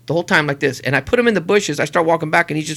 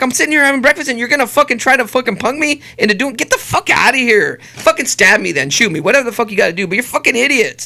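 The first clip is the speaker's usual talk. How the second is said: retold rant, indignant and raised in pitch; pissed off; 4 semitones higher than usual. Dad interrupted at breakfast tells off idiots, pissed off. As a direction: tell them off, exasperated. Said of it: "I was more pissed".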